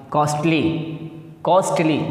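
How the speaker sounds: कॉस्टली opening on a hard K sound; careful teacher's कॉस्टली, starting with K; C read as K. Shown as a demonstration. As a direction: pronounce कॉस्टली with its C as "ka". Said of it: "सी को का पढ़िएगा आप".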